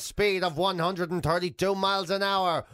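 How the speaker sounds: slow announcer intro; fighting game announcer. Retold or imitated. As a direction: hype it like a ring introduction. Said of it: "the weather person would be there going".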